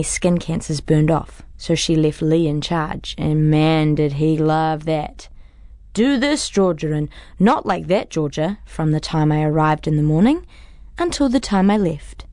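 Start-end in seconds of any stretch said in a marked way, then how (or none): 5.9-8.6 nagging, pitched-up bossy voice; mocking bossy boss. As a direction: parrot his nagging orders.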